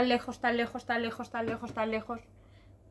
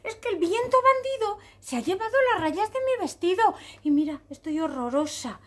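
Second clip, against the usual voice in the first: higher, louder mock wail; tearful complaint; 7 semitones higher, 4 dB louder than usual. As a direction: lament it like an upset little zebra. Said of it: "¿Por qué lloras".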